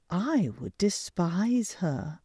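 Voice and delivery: a light gossipy hen voice; gossiping hen. Acted.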